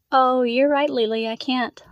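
exaggerated teasing concession. A narrator's reading. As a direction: playfully give in, tauntingly. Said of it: "London teased".

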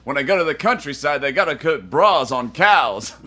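comic's punchline delivery, lightly imitated; Rodney Dangerfield. Host quoting the villain's line as a comedian, light Rodney Dangerfield impression. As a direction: lightly mimic a stand-up doing one-liners. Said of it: "in Rodney Dangerfield's voice".

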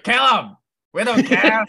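loud, high yelled order; hanging from the ceiling, yelling at the brigand; character shout. Acted. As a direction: bellow down from the ceiling, not caring. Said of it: "ask the question in their character voice".

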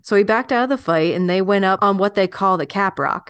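lightly put-on old West storyteller accent; L'Amour's accent. Recalling small-town boxing matches, in a light put-on accent. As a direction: let a folksy Western accent take over. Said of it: "I'm loving the accent".

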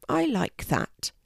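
slow, considering sparrow; thoughtful. A narrator's reading. Sparrow weighing the idea, slow and thoughtful. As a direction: let the words settle, slowly. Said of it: "says the sparrow thoughtfully".

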